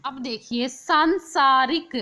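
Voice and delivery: सांसारिक slowed, nasal सां drawn out; nasal sound shown. Shown as a demonstration. Teacher shows students the nasal sound in सांसारिक. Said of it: "बिंदु की आवाज़ आ रही है ना".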